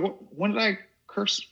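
high, feigned astonishment; mock innocent surprise. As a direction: play dumb, pitch way up.

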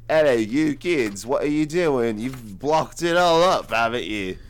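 hammed-up Irish cop scolding the kids; attempted Irish accent. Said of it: "He's Irish".

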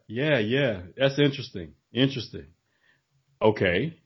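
mock uninterested podcast host; feigned interest. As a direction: murmur polite interest while clearly not caring. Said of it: "Judging by the fluctuation in your voice, you don't sound too interested".

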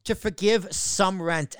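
slow, leaning on the word some; stress on some. Real, not acted. Reading the news, stressing some. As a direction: land on some so the cut sounds small. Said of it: "Emphasis on the word some".

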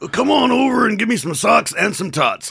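loud, high-pitched sportscaster impression; John Madden. Co-host mimics a comedian's imitation, loud impression. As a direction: belt it out high as a booming comic impersonation. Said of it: "John Madden".

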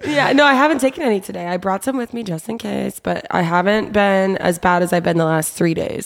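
congested, sick voice; talking through a head cold; stuffy nose. Real, not acted. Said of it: "I'm sick this week".

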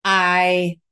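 soothing a frightened mother; calm, de-escalating. Retold or imitated. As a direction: settle her down gently. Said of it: "how do I show up in this moment that doesn't escalate this".

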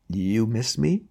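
a small, bleeding croak. Acted. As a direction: croak it, weak and pitiful. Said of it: "he croaked in a small, bleeding voice".

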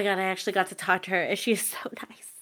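whispered and giggling, "so nice" almost breathless; whispered gush. Real, not acted. Fan gushing to her cohost about her idol, whispered. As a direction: whisper it like a secret thrill.

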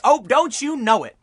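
high, drawn-out mock agreement, slow; sarcastic. Real, not acted. Sneering at the news anchor's complaint, sarcastic and slow. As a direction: savour the sarcasm, slowly. Mocking the anchor's expected criticism.

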